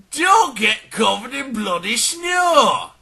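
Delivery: high, slow, loud bellow; drawn-out high shout, hammering the point; emphatic shouted warning. Acted. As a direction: bellow it as the grand safety rule. Climax of pompous safety warning.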